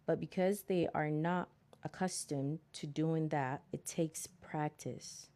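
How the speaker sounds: measured, deliberate book reading; reading aloud. Acted. Reading self-help advice to listeners, measured read-aloud. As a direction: read it out in careful phrases.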